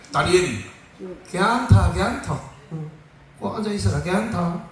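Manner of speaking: playful Gyeongsang reassurance; Gyeongsang dialect. Acted. Preacher voicing lions telling Daniel it's fine, Gyeongsang dialect. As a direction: say it in a Gyeongsang accent. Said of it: "이 경상도 버전이 또 재미있을 때".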